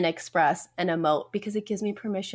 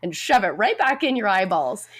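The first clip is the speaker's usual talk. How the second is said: sarcastic mock scold, louder at the end; 4 dB louder than usual. Mock scolding a child over Mickey Mouse tears. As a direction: scold a child for crying, hammed up. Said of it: "I'd be like".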